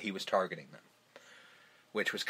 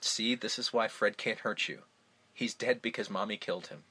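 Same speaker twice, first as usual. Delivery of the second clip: softer, eerie motherly comfort; calm it down to a hush; soft creepy reassurance; 7 dB quieter than usual. Retold or imitated. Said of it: "She just basically says".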